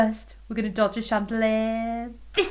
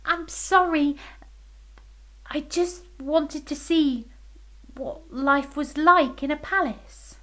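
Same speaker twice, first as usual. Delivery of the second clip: fairy voice; 5 semitones higher than usual. Acted. Fairy apologising, higher voice.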